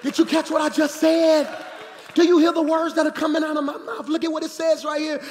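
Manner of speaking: loud, high challenge to the crowd; full-force preacher shout; preaching shout. Real, not acted. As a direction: drive it home.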